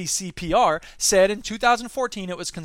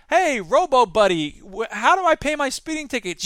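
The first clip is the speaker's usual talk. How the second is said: nervous citizen; 5 semitones higher than usual. Acted. Citizen asking police robot.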